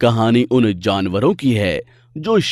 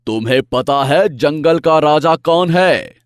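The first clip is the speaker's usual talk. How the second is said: louder repeat; 3 semitones higher, 4 dB louder than usual. Acted. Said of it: "शेर एक बार दहाड़ता है".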